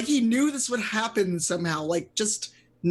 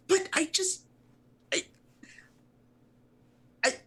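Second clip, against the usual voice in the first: flustered arguing; 11 semitones higher than usual. Acted. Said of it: "he starts arguing".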